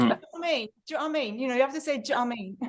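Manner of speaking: dropped-consonant cockney "Do you know what I mean?", slurred to "d'ya know wha' I mean"; London cockney phrasing. Shown as a demonstration. Teacher shows students how Londoners say "Do you know what I mean?" in cockney. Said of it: "demonstrating London phrasing".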